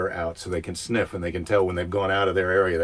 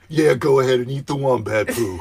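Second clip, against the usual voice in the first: sarcastic; 3 semitones higher, 3 dB louder than usual. Pretend. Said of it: "really be sarcastic".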